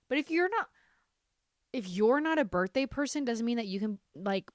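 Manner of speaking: real rising outrage, pushing her words out; getting heated. Real, not acted. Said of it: "I'm getting heated".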